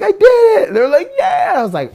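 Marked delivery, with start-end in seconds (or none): 0.0-0.7 high, loud cry of victory; triumphant yell. Retold or imitated. Skater has just landed his hardest kickflip, triumphant yell. 1.2-1.5 very high, loud cheer; imitated cheer. Friends react to the kickflip landed on sponge, imitated cheer.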